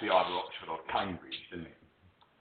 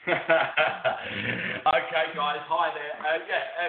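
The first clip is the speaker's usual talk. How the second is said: echoey bathroom mic sound; echoing tunnel. Real, not acted. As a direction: voice bouncing off tiled walls. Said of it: "it sounds like you're in the bathroom".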